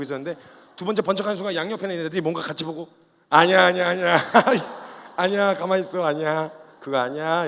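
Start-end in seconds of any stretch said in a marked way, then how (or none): 3.3-7.5 panicked hushing. Retold or imitated. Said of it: "이래서 이제 말렸어요".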